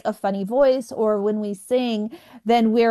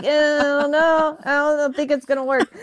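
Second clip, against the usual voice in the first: interviewer brushing her off, pitched up; a higher, lightly voiced interviewer saying no; dismissive interviewer; 5 semitones higher than usual. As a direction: job interviewer turning down the stuttering applicant, mock polite.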